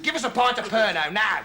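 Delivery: mildly worked-up demand. Acted. Kevin demands a drink at the bar, impatient. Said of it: "I was getting worked up again".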